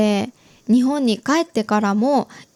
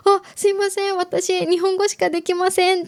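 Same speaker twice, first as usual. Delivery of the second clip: higher, flustered quick apology; startled apology; 6 semitones higher than usual. Retold or imitated. Herself, answered in English by a stranger, startled apology. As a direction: blurt it out, caught off guard. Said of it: "びっくりしてしまって".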